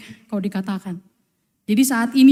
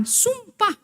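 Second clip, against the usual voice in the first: swearing denial; 2 semitones higher than usual. Retold or imitated. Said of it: "Maka Petrus mengatakan".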